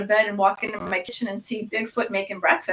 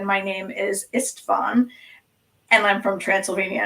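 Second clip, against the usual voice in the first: put-on slight Transylvanian accent. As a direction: introduce yourself with a hint of Transylvanian. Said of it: "Do I sense, like, a small accent".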